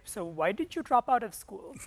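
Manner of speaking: 1 aunties' mock scolding. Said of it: "your aunties would be like".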